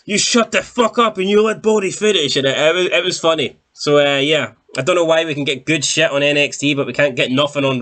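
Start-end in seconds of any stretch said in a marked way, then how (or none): 0.1-2.4 much higher, put-on voice snapping at the heckler; imitating a boss scolding a heckler; mock angry telling-off. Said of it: "he's like".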